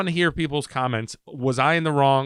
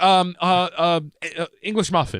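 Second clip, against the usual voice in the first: mock panic; 4 semitones higher than usual. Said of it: "freaks out".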